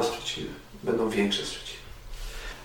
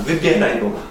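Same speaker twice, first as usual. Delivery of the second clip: firm call; 3 semitones higher, 5 dB louder than usual. Acted. Preacher repeating his key phrase.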